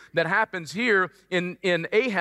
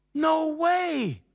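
mock disbelief; 7 semitones higher than usual.

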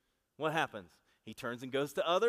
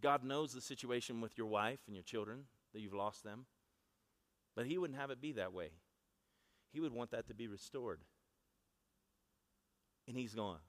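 much softer, lower, intimate delivery; hushed prophetic word; 4 semitones lower, 8 dB quieter than usual. Acted. Preacher voicing his prophecy to the divorced soldier, softly. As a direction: speak it gently as if to one man.

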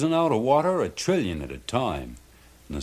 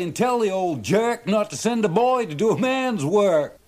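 much higher, louder fisherman voice; triumphant fisherman; 12 semitones higher, 3 dB louder than usual. A narrator's reading. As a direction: crow your victory. Charlie taunting the boss.

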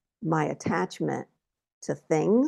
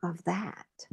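slow, higher-pitched voice for a chiding spirit; imitating Spirit; 4 semitones higher, slower than usual. Spirit answers a woman crying over bills, slow mock rebuke. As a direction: lightly voice a spirit's rebuke, drawn out. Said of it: "Spirit's like".

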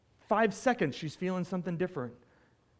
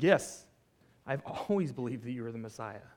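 tearful but trying; 4 semitones lower than usual. Acted. Preacher as grieving Martha affirming faith to Jesus, subdued. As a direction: hold back tears while affirming belief. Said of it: "tears running down her face, doing her best here".

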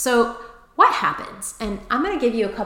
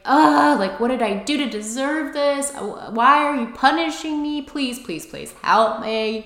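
raised, whiny plea to be rescued; tearful pleading; 5 semitones higher than usual. Retold or imitated. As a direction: beg for help, near tears. Retelling crying pity party.

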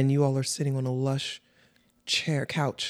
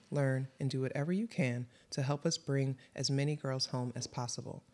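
soft, measured read of a show opener; serious, quiet announcement to listeners; scripted podcast intro; 6 dB quieter than usual. Acted. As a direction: read it as a sober content notice.

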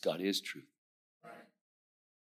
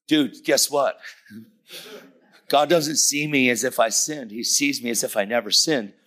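louder, higher, excited retelling; freaking out; 4 semitones higher, 5 dB louder than usual. Retold or imitated. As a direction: burst with the news to a friend. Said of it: "I'm freaking out".

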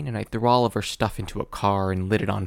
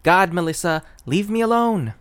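mock exasperated cry; 8 semitones higher, 5 dB louder than usual. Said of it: "It's like".

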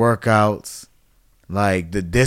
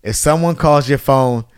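joking warning; 4 semitones higher, 4 dB louder than usual. Retold or imitated. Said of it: "And Ozzie goes".

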